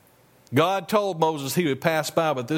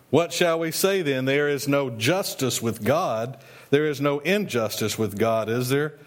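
scripture reading; 2 semitones lower than usual. Acted. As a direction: read the passage solemnly from the pulpit. Reads scripture passage aloud.

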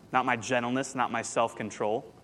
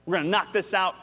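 excited; 6 semitones higher than usual. Retold or imitated. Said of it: "I'm like".

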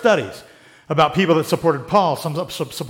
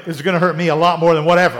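repeats the line louder, scoffing; mocking scorn; 4 dB louder, faster than usual. Mocks the parents' line to the congregation, scoffing. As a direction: sneer at the old saying. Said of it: "Ah, baloney".

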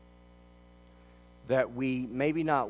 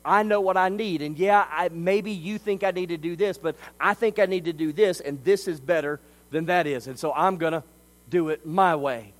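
proud inner voice; 5 semitones higher, 6 dB louder than usual. Retold or imitated. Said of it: "We're saying".

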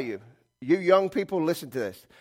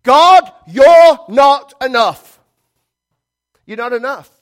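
much higher and louder, slow and raw; defiant cry to God; 9 semitones higher, 14 dB louder, slower than usual. Retold or imitated. Preacher voicing a sinner rejecting God, a slow loud cry. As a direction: fling the words at God like a rebellion. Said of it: "this is what you said".

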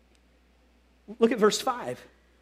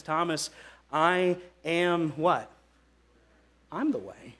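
reassuring; 5 semitones lower, 6 dB quieter, slower than usual. Retold or imitated. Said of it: "to relieve his anxiety".

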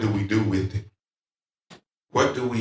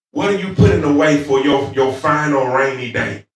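raised, forceful pulpit question; preaching challenge; 5 semitones higher, 6 dB louder than usual. Real, not acted. Preacher asking what they put away, forceful preaching. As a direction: press the question on the congregation.

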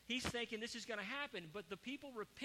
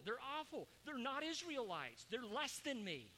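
higher, raised complaining voice, outraged at God's mercy; indignant, pitched-up rant at God; frustrated Jonah; 4 semitones higher than usual. Acted. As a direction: whine it like a prophet who wanted doom. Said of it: "now he's getting really frustrated".

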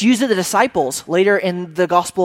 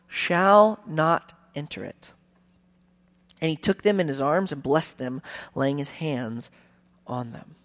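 measured Bible reading, slowing and fading at the end; solemn reading voice that softens to a hush; scripture reading. Acted. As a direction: read the passage aloud to the congregation.

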